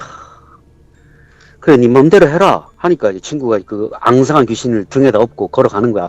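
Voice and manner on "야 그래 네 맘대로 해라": exasperated, fed up, dumbfounded disbelief. Retelling a grandson giving up an argument: imitating exasperated disbelief. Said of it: "어이가 없다는 듯이".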